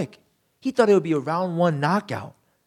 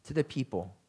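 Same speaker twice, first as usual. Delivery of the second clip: accusing Moses voice; 4 semitones higher than usual. Retold or imitated. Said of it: "He says".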